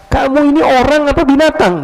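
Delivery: high, angry retold yell; furious woken man shouting at the intruder. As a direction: scold the stranger in the dark. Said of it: "teriak dia".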